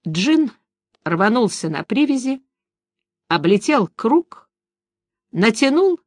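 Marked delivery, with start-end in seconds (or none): none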